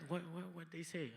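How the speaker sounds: lightly voiced eager lady; eager hush. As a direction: lean in curiously and ask quietly. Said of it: "she's like".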